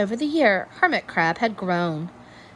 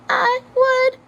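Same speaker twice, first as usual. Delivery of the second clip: eager snail; 6 dB louder than usual. A narrator's reading. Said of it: "offered one of the snails".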